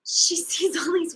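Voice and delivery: whispered through suppressed giggles; trying not to laugh while telling it; fighting laughter. Real, not acted. Retelling the story to a friend, breaking into stifled laughter. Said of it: "I'm trying not to laugh".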